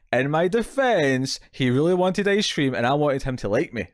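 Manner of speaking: lightly voiced kid's protest, drawn out at first; pleading excuse. Child excusing himself after mum spots the ice cream, lightly pleading.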